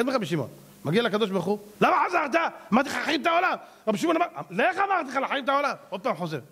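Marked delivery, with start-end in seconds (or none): 1.8-3.6 high-pitched mock scolding from on high; scolding yell. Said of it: "השם צועק עליו". 4.5-5.7 high, exasperated acted order; scolding yell. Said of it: "השם צועק עליו".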